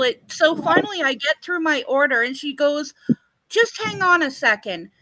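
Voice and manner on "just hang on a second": lightly imitated Tennessee waitress, higher pitch; a hint of Southern waitress; Southern accent. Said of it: "Tennessee accent, like, the Southern accent".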